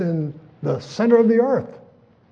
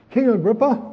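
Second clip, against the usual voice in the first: sudden call; 7 semitones higher, 3 dB louder than usual. Retold or imitated. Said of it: "Paul's sudden question".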